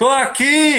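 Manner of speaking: very high, loud, full-on high-pitched shout. Speaker retells answering when called for in a stadium: retelling a loud shout. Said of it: "Gritei bem alto".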